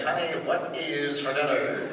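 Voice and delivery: lightly voiced seventies announcer asking about dinner; announcer voice at home. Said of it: "do they always sound like this".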